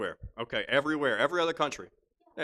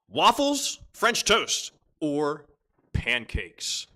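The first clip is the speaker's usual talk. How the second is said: game-show announcing; much slower than usual. Real, not acted. Host reads breakfast choices to players, announcing. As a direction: announce each choice with a pause between.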